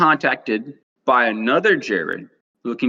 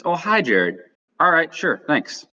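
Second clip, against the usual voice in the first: higher-pitched imitation of a friendly host; retold cheery phone hello, pitched up; friendly greeting; 7 semitones higher than usual. Old host greets Jared on the phone, imitated friendly greeting.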